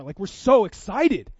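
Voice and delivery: drawn-out, emphatic excitement; excited. Retold or imitated. Retelling donors who want to give, excitedly. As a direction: stretch out the thrill of giving.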